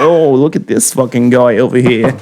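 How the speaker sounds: put-on muddled Jewish accent; hammed-up Jewish accent with Italian and German tinges. Podcaster imagines a basement dude running YouTube, hammed-up Jewish accent. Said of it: "a German Italian Jewish accent".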